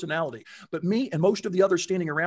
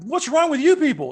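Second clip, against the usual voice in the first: louder, higher mock disbelief; woman asking why they stopped, mock disbelief; incredulous; 8 semitones higher, 8 dB louder than usual. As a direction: toss it off like she can't believe them. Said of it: "she's looking at us like".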